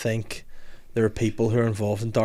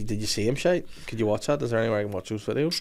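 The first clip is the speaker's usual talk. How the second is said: creepy tone; 7 dB quieter, faster than usual. Real, not acted. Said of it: "It sounds perverted when you say it in that tone".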